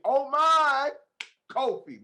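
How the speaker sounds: Oh my up high and loud, Kofi falling back to normal; thrilled repeat of the name Kofi; excited exclamation. Real, not acted. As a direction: exclaim it again with delight. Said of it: "That's the only way to say your name".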